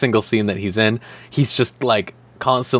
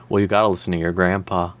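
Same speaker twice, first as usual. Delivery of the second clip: mock old man; 5 semitones lower, faster than usual. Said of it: "the show is just like".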